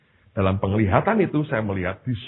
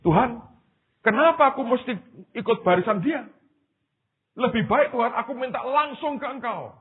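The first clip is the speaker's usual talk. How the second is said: high-pitched pleading argument; protesting; 11 semitones higher than usual. Acted. Man argues with God about queuing behind another, high protesting. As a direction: act out a man arguing back at God. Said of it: "dia masih bantah".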